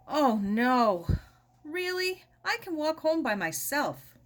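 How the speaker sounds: mock-breezy objection from a young girl; protesting girl. Sarah protests being met.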